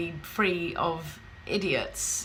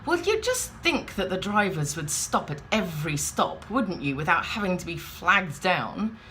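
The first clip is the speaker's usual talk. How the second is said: grumpy. Retold or imitated. Woman grumbles to bystander about bus drivers, mock grumpy. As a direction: imitate an indignant, put-out complainer. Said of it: "She just grumpily says".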